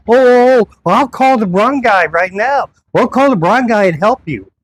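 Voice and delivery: high, hurried backpedalling voice; mock flustered officer. Imitating the officer scrambling to fix things, flustered. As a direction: imitate him scrambling to appease.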